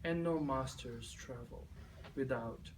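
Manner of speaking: measured verse sinking into near-whisper; hushed, deliberate spoken-word close; poem recitation. Acted. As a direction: recite in short, weighed phrases, softening to the end.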